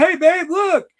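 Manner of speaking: high, loud excited call; loud, eager show-and-tell voice. Retold or imitated. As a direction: call your partner over, thrilled. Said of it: "I was so excited".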